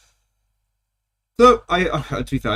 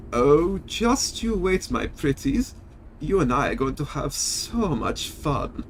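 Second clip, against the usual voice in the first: gloating villain; 6 dB quieter, slower than usual. Pretend. Villain line, nobody names.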